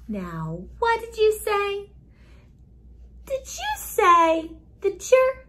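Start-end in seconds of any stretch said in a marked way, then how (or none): 3.2-5.4 mock surprise. Mock surprise at child's answer.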